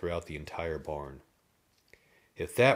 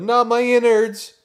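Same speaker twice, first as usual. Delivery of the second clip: high panicked scream; terrified shout; 14 dB louder than usual. A narrator's reading. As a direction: yell it in horror. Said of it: "Drew shouted".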